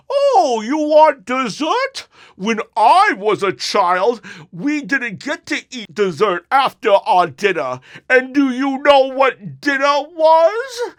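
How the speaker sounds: high, loud, slowed mock villain voice; Bane voice. Father as Bane scolding kids over dessert, high and loud. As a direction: play Bane lecturing the kids, slow and booming. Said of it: "he would talk like this".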